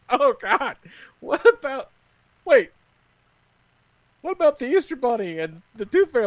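mock wail, high and loud; retold bawling. Child learning Santa is just parents, mock bawling. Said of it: "Then she just starts bawling".

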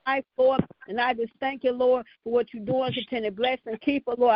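prayer cadence, calling on Lord; fervent prayer. Acted. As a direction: pray it out with fervor. Leads the prayer line.

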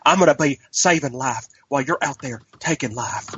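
mock Southern accent; fake-sounding, ridiculous Southern twang; Andrew Garfield impression. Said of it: "ridiculous Southern accent that just sounds like".

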